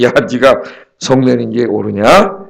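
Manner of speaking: low, slow, forbearing divine question; God gently accepting. Retold or imitated. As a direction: ask slowly and low, as a patient God. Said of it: "하나님께서 다 받아주세요". (하나님이 다 받아주듯 낮고 느린 말투)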